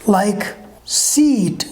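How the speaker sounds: "seat" with a long drawn ee; long vowel seat. Shown as a demonstration. Teacher modelling a long vowel for students, stretched ee. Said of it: "you pronounce long vowels a little longer".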